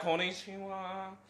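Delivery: drawn-out, high Japanese hello; Japanese greeting. Acted. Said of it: "we can become, like, Japanese".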